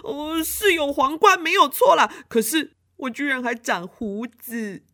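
put-on high, whiny complaint as the prince-girl; whiny little girl. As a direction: wail about the beard and crown. Xiaomei upset, turned into prince.

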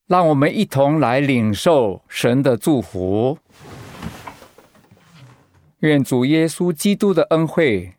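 solemn, measured blessing; benediction. Acted. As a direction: bless the congregation with calm gravity. Pastor gives the benediction.

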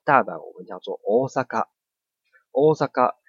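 大阪 with the o held; long o. Shown as a demonstration. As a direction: stretch the o of 大阪.

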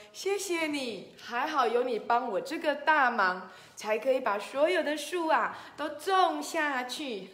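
lilting, grateful storybook turtle; lightly acted happy gratitude; smiling thanks. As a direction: thank him with a smile in the voice. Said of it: "笑着跟他说".

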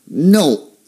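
NO pitched high, dropping hard; strong falling tone. Shown as a demonstration. Teacher repeating the fourth tone, strong falling NO. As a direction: hit NO high and drive it down. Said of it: "The tone goes down strongly".

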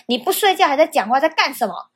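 imitating teacher's scolding. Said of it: "这样非常大声，非常的凶".

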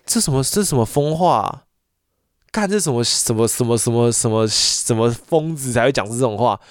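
real anger spilling over into swearing; really angry. Real, not acted. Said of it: "我真的很生气".

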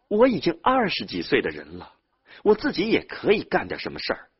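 loud, high-pitched self-defence; indignant retort. Acted. Younger brother insisting he is grown up, indignant. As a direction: argue back, insisting on independence.

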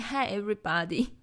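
lightly mimicked, slow teacher greeting; slightly drawn-out imitation of a classroom hello; mock English teacher. Teasing a friend's greeting, mock English teacher. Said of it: "英文老师啊？".

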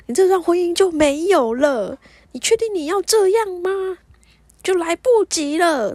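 high, forceful, drawn-out scolding; loud, emphatic retold admonishment; stern ultimatum.

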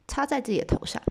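usual speaking voice

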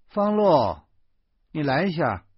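high loud call from the bathroom. A narrator's reading. Wife calling husband from the bathroom, loud high call. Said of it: "老婆忽然在卫生间里叫起来了".

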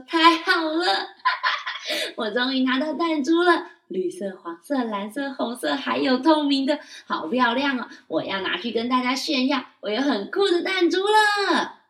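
put-on high, loud child voice bubbling with laughter; happy laughing child. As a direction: laugh with delight over the marbles. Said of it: "马莫利斯好开心说". (开心地笑着，高声童音)

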